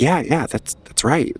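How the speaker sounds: agreeing crowd member. Acted. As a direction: chime in as a persuaded listener. GM voices nodding crowd members.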